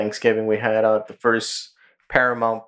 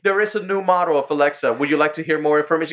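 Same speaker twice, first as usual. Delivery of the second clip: lightly imitated Alexa, starting higher then speeding up; Alexa assistant; 3 semitones higher, faster than usual. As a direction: rattle off the upgrade offer like a voice assistant. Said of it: "Turns out she's his Alexa".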